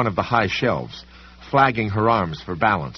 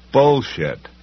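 scornful bark; 4 semitones higher, 4 dB louder than usual. Acted. Sam scoffs at threat.

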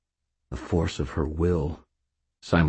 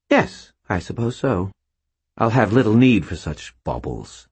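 haughty spirit queen; 5 semitones higher, 3 dB louder than usual. A narrator's reading. Voices Lady Shade.

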